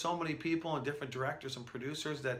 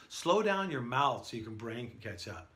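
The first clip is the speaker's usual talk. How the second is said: normal talking voice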